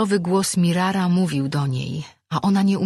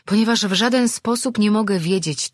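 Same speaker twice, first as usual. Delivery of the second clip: firm refusal, louder and higher; firm rebuttal; 5 semitones higher, 5 dB louder than usual. A narrator's reading. Heroine refuses to believe his explanation, firm and raised. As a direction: push back with raised voice. Heated refusal in a tense confrontation.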